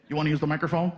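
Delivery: a deep mock cop offer. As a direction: drop low like a deadpan officer. Cop voiced low in story.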